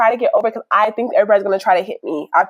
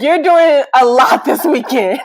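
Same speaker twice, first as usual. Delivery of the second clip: laughing quote; 4 semitones higher, 3 dB louder, slower than usual. Retold or imitated. Retold friends' reaction, laughing.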